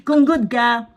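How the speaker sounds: slow, laughing through the words. Shown as a demonstration. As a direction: chuckle as you repeat it.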